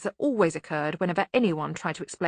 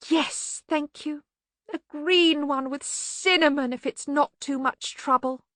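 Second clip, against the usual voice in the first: high, slow, wandering voice; dotty bursar; 9 semitones higher, slower than usual. Acted. Bursar answering when asked if ready, dotty.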